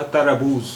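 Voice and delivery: तरबूज said as written, full vowels; तरबूज sounded out syllable by syllable; spelling pronunciation. Shown as a demonstration. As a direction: say तरबूज as spelt, ta-ra-booz. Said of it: "इसका तलफ़ुज़ तो हुआ".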